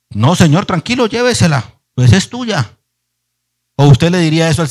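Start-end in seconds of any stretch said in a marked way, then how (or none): 0.1-2.8 higher, louder, breezy mock calm; mock saintly surrender. Preacher mocking an overly spiritual answer, breezy and calm. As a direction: hand her over with fake ease. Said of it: "ni soy tan espiritual".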